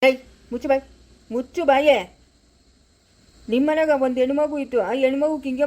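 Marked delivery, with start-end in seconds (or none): 0.0-2.0 sharp louder scolding; a furious mother silencing her daughter; angry shut up. Acted. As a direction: cut her off hard.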